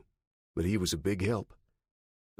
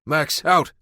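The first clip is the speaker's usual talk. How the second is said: firm command; 7 semitones higher, 7 dB louder than usual. Acted. Commanding the dog.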